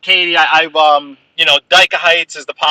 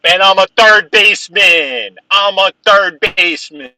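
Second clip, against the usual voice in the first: indignant; 6 semitones higher, 6 dB louder, slower than usual. Real, not acted. Arguing about his baseball position.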